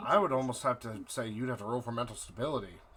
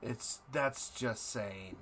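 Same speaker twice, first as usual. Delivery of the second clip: eldritch horror; 3 semitones lower, 4 dB quieter, slower than usual. Acted. Deity keeps speaking to player.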